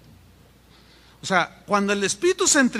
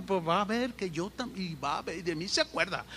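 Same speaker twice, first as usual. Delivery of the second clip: softer, half-voiced resentful thinking aloud; brooding grumble; 9 dB quieter than usual. Preacher acting out a bitter believer talking to herself, brooding grumble.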